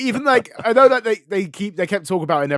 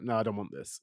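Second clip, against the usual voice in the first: put-on toddler energy; 6 semitones lower, 11 dB quieter than usual. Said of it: "It's like, it's like toddler energy".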